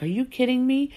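high, incredulous retold outburst; retold disbelief. Confronting sister who told Dad, incredulous. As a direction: voice leaps up in mock disbelief.

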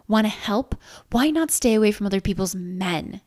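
angry, punched opening; hissed accusation. Acted. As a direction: spit the accusation at her. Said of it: "she hissed".

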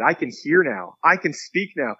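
retold excitement, rising on the second phrase; mildly excited quote, building in pitch. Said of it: "this time more excited".

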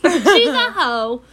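slow, loud laughing "She's a hoe". Real, not acted. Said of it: "cut it off as hoe".

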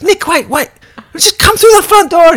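high mock scolding vampire; exasperated vampire. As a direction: plead with a hopeless newbie.

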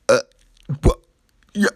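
mock flustered stammer; halting, broken fragments with gaps; lost for words. Critics left speechless when confronted.

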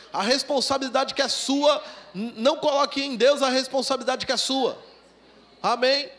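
loud, insistent preacher; forceful preaching. Acted. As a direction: drive the point home to the church. (pregação enérgica e alta)

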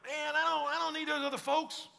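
mock a believer shrugging others off; a hint of put-on casual excuse; dismissive Christian. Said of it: "a Christian that's like".

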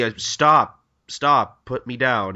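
mildly protesting, repeated stop; Marinosuke. Retold or imitated. Hunter being carried off, mild protest. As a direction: protest with a little push on each stop. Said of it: "Marinosuke's like".

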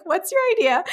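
high, loud eager question; excited. Retold or imitated. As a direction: jump on the idea eagerly. Eager reply to Chrissy.

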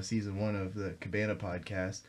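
ordinary delivery

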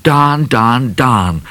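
mild swearing. A narrator's reading. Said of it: "swore the worst swear word".

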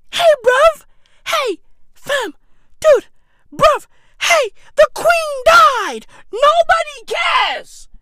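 high, loud, slow hyped calling; high shouted mock taunting; high mock hype. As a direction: call it out like a hype man.

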